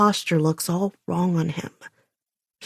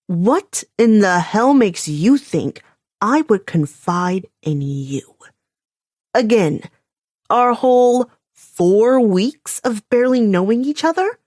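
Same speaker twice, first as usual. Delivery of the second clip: slow, every word spat out separately; a slow, deliberate glare of a question; pointed enunciation; 3 semitones higher, 4 dB louder than usual. A narrator's reading. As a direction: hammer each word at him. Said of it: "I enunciate each word pointedly".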